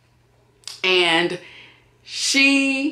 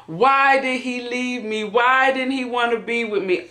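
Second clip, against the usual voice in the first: imitated crying; 4 semitones higher than usual. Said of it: "Then she started crying".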